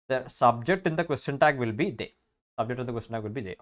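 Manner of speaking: slow, spelled-out rule; slow dictation. Shown as a demonstration. Teacher spelling out a grammar rule to students, slowly. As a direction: dictate it word by word. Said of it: "states rule slowly".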